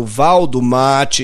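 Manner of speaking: slow drawn-out mate call; singsong beach vendor call. Acted. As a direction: drag out the call like a hawker. Beach vendors voiced in poem. (pregão arrastado de vendedor de praia)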